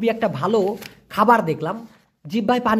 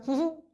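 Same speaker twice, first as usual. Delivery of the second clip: soft chuckle; 8 semitones higher, 8 dB quieter, faster than usual. Shown as a demonstration. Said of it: "মুচকি হাসি আছে না".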